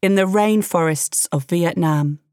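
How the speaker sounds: slow, grand storybook opening; epic fantasy narrator. A narrator's reading. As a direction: draw out the opening like a legend.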